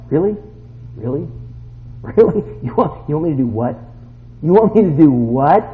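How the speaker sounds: questioning, played-up disbelief; mild incredulity. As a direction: act taken aback, stressing the last question. Acts out disbelief at God's call.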